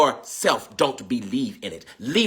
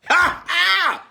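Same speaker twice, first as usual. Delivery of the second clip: choked line, then high cries; tearful outcry. Real, not acted. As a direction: break down, then cry out. Crying out in emotion.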